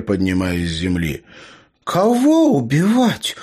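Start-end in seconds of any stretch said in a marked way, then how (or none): 1.8-3.4 put-on high, slow, displeased girl's voice; a young woman catching them out. A narrator's reading. Tasya catches the gnome behind him, high and displeased. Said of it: "раздался недовольный ... девичий голос".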